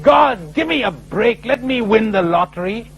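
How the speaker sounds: half-hearted cry of frustration to God; retold yell. Frustrated man yelling at God for the lottery, mild mock yell. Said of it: "he yelled".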